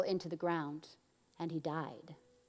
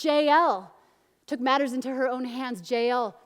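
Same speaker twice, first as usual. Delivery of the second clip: proclaiming; 5 semitones higher, 9 dB louder than usual. Retold or imitated. Proclaims the song of Deborah.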